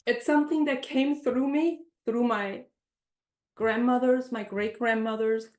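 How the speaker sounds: fighting back tears while speaking of family; getting emotional. Real, not acted. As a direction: voice rising high with real emotion. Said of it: "now I'm getting emotional".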